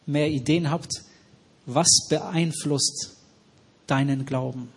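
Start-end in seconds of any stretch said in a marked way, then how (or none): 1.6-4.7 very slow, word by word; slow question. Real, not acted. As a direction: let each word sink in. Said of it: "das ist eine ganz wichtige Frage".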